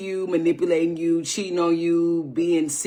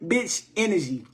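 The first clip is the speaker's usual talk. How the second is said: laughing through it; 4 semitones higher than usual. Real, not acted. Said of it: "I can't even say it".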